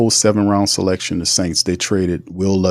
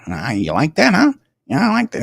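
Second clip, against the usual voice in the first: mock taunting reply; 7 semitones higher than usual. Mock reply in acted argument.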